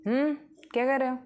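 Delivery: put-on high, quick girl's voice; curious girl. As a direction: ask brightly like a curious schoolgirl. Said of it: "प्रिया, कहती है".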